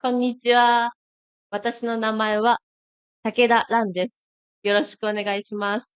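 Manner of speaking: Japanese self-introduction; speaking Japanese. Shown as a demonstration. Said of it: "pakai bahasa Jepang? Coba?".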